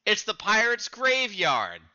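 ominous warning. Acted. Cook correcting the captain, ominous warning. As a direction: warn him off. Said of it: "playing the various characters".

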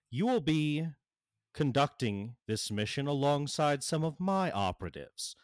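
lightly voiced imperious official; measured, lightly acted woman in command; Amanda Waller. Official introducing herself to the team, lightly acted authority.

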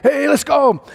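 high, eager cheer; rally everyone to the show; excited call. Pretend. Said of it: "we're gonna be like".

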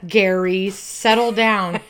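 hammed-up calm-down order; mock scolding. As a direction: scold him like a naughty dog.

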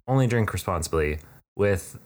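smooth announcer read. Pretend. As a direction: read it like a sponsor spot. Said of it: "that sounded like it was gonna go into an ad".

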